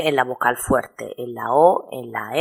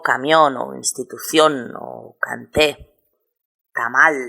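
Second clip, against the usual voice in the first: "camión", "institución", "canté", "tamal" each stressed on the final syllable; stress on last syllable. Shown as a demonstration. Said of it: "El acento recae en la última sílaba".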